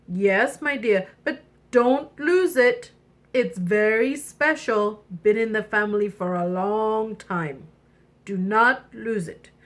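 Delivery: a hint of a stern father; cautioning king father. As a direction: warn your child firmly but kindly. King warns the princess.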